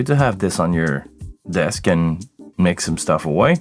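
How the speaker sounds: ordinary talk, nothing marked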